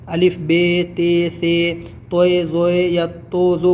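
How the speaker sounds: "بے، تے، سے" ending in ay instead of long aa; Urdu letter names. Shown as a demonstration. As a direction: recite the Urdu way, "توئے، زوئے", as learners wrongly do. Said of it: "Urdu میں تو ایسے بول دیتے ہیں".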